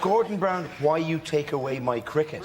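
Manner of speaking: mock West Indian accent. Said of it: "He doesn't speak as if".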